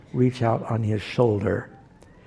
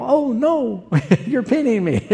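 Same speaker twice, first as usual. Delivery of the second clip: mock defeat; 10 semitones higher than usual. Dad play-wrestling his boys.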